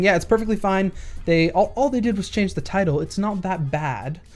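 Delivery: slight British lilt on a quote; hint of British. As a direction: voice the commenters with faintly British vowels. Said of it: "a hint of a British accent".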